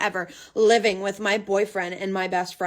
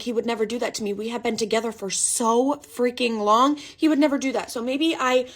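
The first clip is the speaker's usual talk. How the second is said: usual speaking voice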